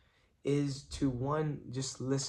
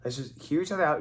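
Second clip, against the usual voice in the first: higher, louder plea to calm down; retold urgent intervention; 4 semitones higher, 5 dB louder than usual. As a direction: jump in to halt a fight, lightly acted. Retold rushing in to calm dad.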